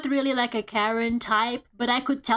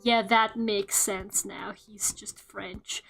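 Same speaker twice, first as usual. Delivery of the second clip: deadpan resigned realization; 3 semitones lower, 3 dB quieter, slower than usual. Retold or imitated. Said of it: "all three of us immediately went".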